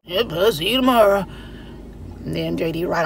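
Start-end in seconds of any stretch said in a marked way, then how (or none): 0.0-1.3 brief, laconic dad reply; imitated daddy. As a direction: answer as the father of few words. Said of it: "And my daddy would be like".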